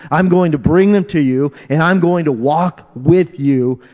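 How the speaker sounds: starts measured, climbs to loud, high proclamation; building emphatic promise. Acted. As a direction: build into a ringing pledge. Preacher voices God's promise, building.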